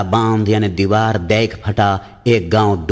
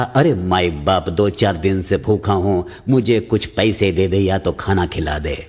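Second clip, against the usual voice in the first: pleading beggar; 2 semitones lower than usual. Acted.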